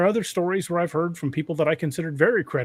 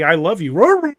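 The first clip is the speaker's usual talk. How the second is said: loud, crude dog imitation of speech; talking husky; 3 semitones higher, 8 dB louder, slower than usual. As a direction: howl the words like a husky. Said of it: "very crudely say".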